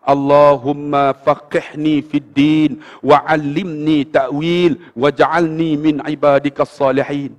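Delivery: very slow, drawn-out Arabic recitation; retold ear-side prayer, fully voiced; murmured prayer. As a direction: stretch each phrase of the prayer evenly. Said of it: "dia bisik kat telinga".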